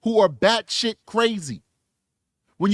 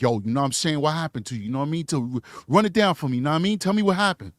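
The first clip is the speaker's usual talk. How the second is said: lower, casual street slang, streetwise talk; 3 semitones lower, faster than usual. Retold or imitated. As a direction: toss it off loosely like a homie, a light imitation. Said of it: "talking to all these people like".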